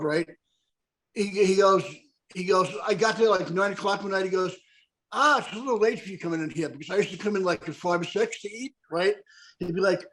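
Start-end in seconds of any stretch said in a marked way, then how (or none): 5.1-6.7 imitated Irish bartender's brogue. Bartender chiding a late customer, Irish brogue. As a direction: lightly put on an Irish accent. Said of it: "bartenders had a really heavy dick I-, Irish brogue".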